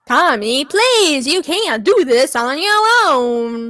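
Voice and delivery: drawn-out mock Italian plea; hammed-up pseudo-Italian lilt; pseudo-Italian accent. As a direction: plead slowly in a fake Italian accent. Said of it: "Why are you, like, pseudo-Italian?".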